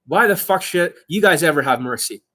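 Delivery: usual speaking voice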